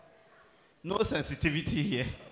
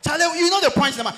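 1 calling out; 9 semitones higher, 7 dB louder than usual. Real, not acted. Calls out to DJ.

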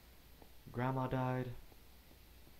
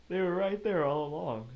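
high, loud, laughing exclamation; laughing disbelief; 8 semitones higher, 10 dB louder than usual. Real, not acted. Player laughing at finding the sheep nearby.

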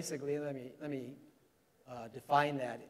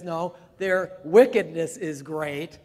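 amused quip; 3 semitones higher, 8 dB louder, slower than usual. Retold or imitated. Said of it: "He says".

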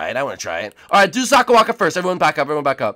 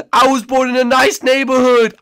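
louder, mocking Tyler; Tyler impression; 3 semitones higher, 5 dB louder than usual. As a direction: roast Tyler in his voice. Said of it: "you wanna do it to me?".

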